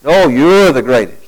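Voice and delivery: hammed-up humble flattery; mock politeness. Preacher mocking disciples, sweetly mock modest. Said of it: "that discussion didn't go like this".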